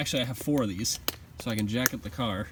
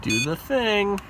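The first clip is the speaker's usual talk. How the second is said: loud urging; 6 semitones higher, 5 dB louder, slower than usual. Real, not acted. Urging starter over loud cranking.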